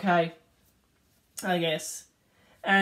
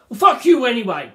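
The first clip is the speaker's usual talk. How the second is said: defiant last words; 3 semitones higher, 9 dB louder than usual. Retold or imitated.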